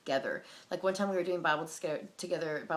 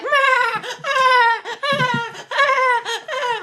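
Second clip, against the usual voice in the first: very high, loud bleating yelps; hammed-up frenzied yelping; mock animal cries; 14 dB louder, much slower than usual. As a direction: mimic crazed worshippers with shrieking animal noises. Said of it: "barking like dogs and like".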